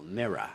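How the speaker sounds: "mirror" as "mirra"; British MIRROR. Shown as a demonstration. Teacher gives an easier example, British "mirror" ending in uh. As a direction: end "mirror" on uh, no final R. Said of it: "in a British accent".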